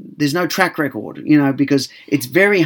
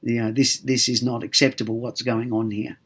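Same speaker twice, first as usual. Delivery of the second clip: softer, calm and firm request; 3 semitones lower, 5 dB quieter than usual. Shown as a demonstration. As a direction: say it quietly, steady and without heat. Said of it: "we're just very calmly saying".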